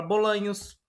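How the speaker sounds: bolaños with a clear ñ as in Portuguese nh; ñ de bolanhos como nh; Spanish ñ. Shown as a demonstration. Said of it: "Como exemplo".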